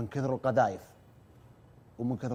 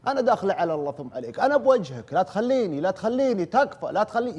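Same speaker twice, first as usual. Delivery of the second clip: put-on retelling a terrified girl begging, higher and louder; frantic pleading girl; 6 semitones higher, 5 dB louder than usual. Teller voicing a trapped girl begging him over the phone, panicked plea. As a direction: beg for help in panic, raised high. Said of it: "يقول لا بنت تصيح".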